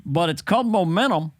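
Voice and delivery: lightly voiced president giving a gentle lecture; a hint of presidential reasoning; Barack Obama. President advising Dana on momentum, lightly impersonated. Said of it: "this is Barack Obama".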